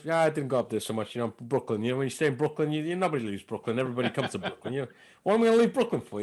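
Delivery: casual, lightly put-on New York American accent. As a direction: play the Brooklyn local with an American accent. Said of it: "when I did an American accent".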